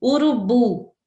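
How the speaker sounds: Urubu pronounced with a strong final bu; teacher's demo of Urubu, stressed on bu; stress on final syllable. Shown as a demonstration. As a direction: punch the bu at the end of Urubu. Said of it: "o bu é a tônica".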